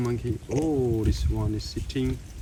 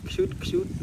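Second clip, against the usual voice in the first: high coo. Real, not acted. Cooing at monkey.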